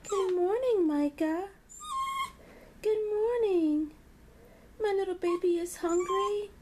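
high, loud sing-song greeting; morning greeting to dog. Real, not acted. Owner greets her dog at breakfast time, high and loud. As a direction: greet the dog brightly and loudly.

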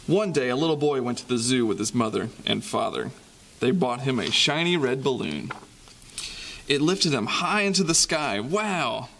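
lively storybook reading with sound effects; reading to children. Acted. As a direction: read it like a bedtime picture book for kids. Reading picture book to children.

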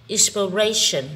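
"inspiration" with the stress on RAY; stress on third syllable. Shown as a demonstration. Teacher showing students word stress, "inspiration" stressed on RAY. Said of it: "âm ray".

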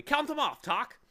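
high, loud, stammered excitement; excited cry. A narrator's reading. Milo timing the bee's spelling, excited cry. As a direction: call it out urgently. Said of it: "cried Milo excitedly".

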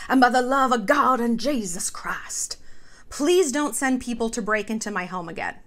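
hushed, breathy mock prayer; whispered prayer. Reading his prayer post in a mock hushed whisper. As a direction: read it like a pious whisper.

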